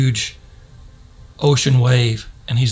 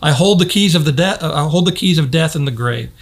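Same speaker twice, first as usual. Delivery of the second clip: raised, ringing proclamation of victory; preacher voicing Jesus with a bold raised shout; proclaiming shout; 3 semitones higher than usual. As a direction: call it out like a triumphant king. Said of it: "And then he shouts, the shouting voice says".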